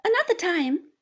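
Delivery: lightly voiced weeping words; mild tearful broken plea; through sobs. A narrator's reading. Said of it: "was all I could distinguish".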